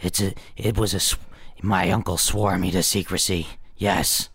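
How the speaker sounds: put-on young girl. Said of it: "And play a young girl".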